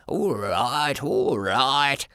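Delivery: a lightly shaky, scared "all right"; frightened old grandfather, a touch of tremble; trembling voice. A narrator's reading. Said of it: "he said, in a trembling voice".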